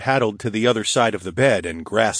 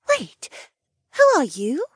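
higher, sharp sudden question; sudden suspicion. Acted. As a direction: stop short, suspicious. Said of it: "Linnea asked suddenly".

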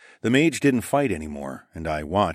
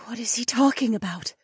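high, confused question; puzzled young woman. A narrator's reading. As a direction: ask in bewilderment. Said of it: "Nokomis asked".

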